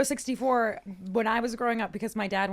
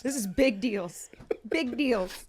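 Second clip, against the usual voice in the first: slow, self-important whisper; mock-serious whisper; 7 dB quieter, much slower than usual. Mocking her ex's gamer importance, mock-serious whisper. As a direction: whisper it like a hammed-up big shot.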